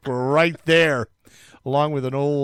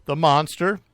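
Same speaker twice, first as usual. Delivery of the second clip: higher-pitched imitation of public outrage; mock outrage; 7 semitones higher, 3 dB louder than usual. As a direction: exclaim like an indignant crowd, half in jest. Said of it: "everybody was outraged, saying".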